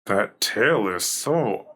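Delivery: very slow, drawn-out admiration; awed. Real, not acted. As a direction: savor each word in wonder. Admiring creature design.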